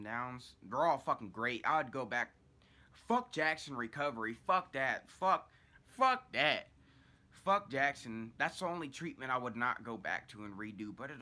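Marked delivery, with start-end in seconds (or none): 2.9-8.3 louder, drawn-out damning; slow emphatic curse. Real, not acted. Cursing Jackson Recovery, slow and loud. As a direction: drag out each fuck.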